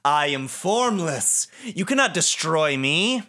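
slow, lightly voiced villain; a hint of a grand, menacing villain, drawn out. Acts out the villain's line.

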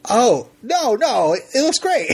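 high, laughing nervous reassurance; embarrassed laughing. Retold or imitated. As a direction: cover the awkwardness with a laugh.

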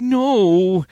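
high, slow, pleading mock whine; panicked denial. Luther begging the Riffs, mock panic. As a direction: squeal out a cowardly excuse.

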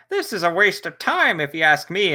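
a hint of a sulky complainer; grumpy Huffer impression. Podcaster mimics Huffer moaning about the charity race, lightly grumpy. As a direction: grumble it like a gloomy robot. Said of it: "That was a good impression".

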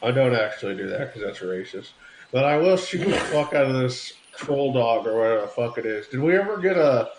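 General Patton voice, pipe between teeth; pipe in mouth. Pretend. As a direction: talk around a pipe stem. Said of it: "I'm gonna take that pipe out of my mouth".

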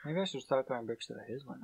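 hushed joking aside. Pretend.

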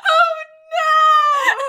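loud, high oh no; panicked shout. Acted. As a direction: shriek in mock panic. Panicked in-character reaction.

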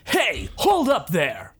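drawn-out call to halt; put-on heroic interrupting voice; challenging newcomer. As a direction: call out slowly to stop someone. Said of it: "as you hear a voice saying".

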